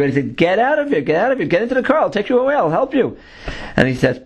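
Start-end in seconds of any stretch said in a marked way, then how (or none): 0.4-3.2 mild retold yell. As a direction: imitate an officer urging someone out, without full volume. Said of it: "now he's yelling at him".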